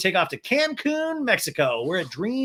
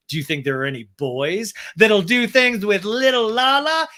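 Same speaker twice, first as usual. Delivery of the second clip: louder, higher mock come-on; Lala impression; 4 semitones higher, 5 dB louder than usual. Boy-hungry friend asking about the resort, mocking impression. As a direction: build up in pitch toward a squeal. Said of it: "And Lala goes".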